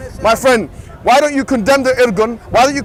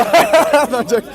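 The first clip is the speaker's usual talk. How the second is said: real laughing. Real, not acted. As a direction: chuckle through the line. Laughs while saying it.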